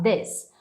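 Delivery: "this" short, with a lax vowel near e; low, short demo of "this"; closed i. Shown as a demonstration. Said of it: "A boca tá até mais fechada".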